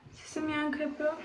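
echoing in an empty room; cave echo. Real, not acted. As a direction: let the voice ring with echo.

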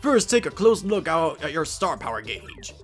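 lightly voiced tutor, measured with lilting emphasis; theatrical tutorial voice, checking they follow; lecturing professor. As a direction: teach each point deliberately, like a professor.

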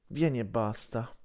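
slow, weary order; a tired big wolf telling the pup to just come. Acted. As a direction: say it slowly like you're worn out by her. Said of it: "disse Frandra in tono stanco".

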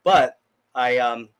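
talking around a stray hair; words caught on hair in the mouth. Real, not acted. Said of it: "got hair in my mouth".

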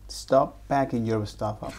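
laughing through the words. Retold or imitated. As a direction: giggle while repeating it. Student parrots teacher, laughing.

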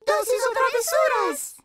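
loud trick-or-treat call. Acted. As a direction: call it out at the door.

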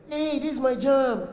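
high, stretched-out squeal of recognition; acted dance-floor excitement; excited party girl. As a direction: draw it out, thrilled by the song. Cynthia jumps up to dance.

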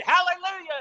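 very high mock-shouted praise; imitated shout. Pastor shouting praise to his church, imitated high shout. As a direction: cry it out at the top of the range. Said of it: "And he shouted".

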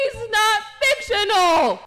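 choked-up denial; tearful insistence. Acted. Boyfriend to girlfriend, defending Barbie, tearful. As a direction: insist through tears.

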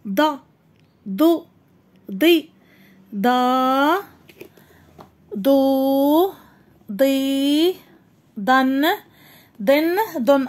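heavy emphatic ضاد with each vowel, deliberate; letter drills. Shown as a demonstration. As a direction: model ضا ضو ضي for pupils. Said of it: "حرف الضاد".

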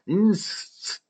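"interested in" said as "ins-tidin", dropping T and R; reduced pronunciation. Shown as a demonstration. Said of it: "이렇게 돼요".

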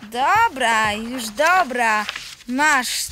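low, slow sulky giving in; scolded boy sulkily handing back the drawing; grudging. Acted. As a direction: drag it out reluctantly.

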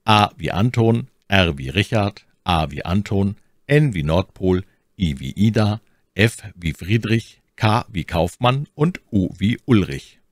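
spelling a name over the phone; each letter with its code word, clearly paced. Shown as a demonstration. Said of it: "Wie buchstabiere ich jetzt meinen Namen".

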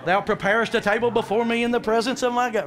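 loud, high scripture proclamation; triumphant preaching. Acted. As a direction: crow the verse to the congregation. Triumphant scripture quote to congregation.

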